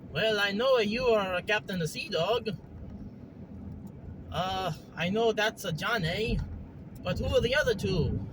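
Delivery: lightly voiced Mario-like character; lilting cartoon voice, politely curious; Hopalong, friendly newcomer. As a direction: ask as a Mario-style newcomer. Plays Hopalong meeting the crew.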